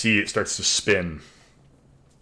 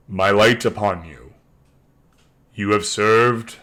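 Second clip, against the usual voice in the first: deep voice. Acted. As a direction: speak as a god from the sunrise. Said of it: "a deep voice say to you all".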